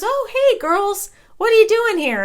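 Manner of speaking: high, lilting "oh, hey" as a friend; imitating a surprised greeting. Friend spots the girls by the pool, surprised greeting. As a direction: act out a pleasantly surprised hello.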